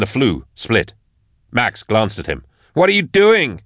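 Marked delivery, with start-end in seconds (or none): 2.7-3.6 high, alarmed yell; yelled question. A narrator's reading. Max challenges Drusha as he kicks the firebox, alarmed yell. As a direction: yell it in disbelief. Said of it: "she yelled".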